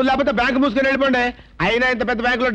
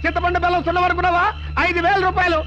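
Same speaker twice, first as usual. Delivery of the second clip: aggrieved complaint; 5 semitones higher than usual. Acted.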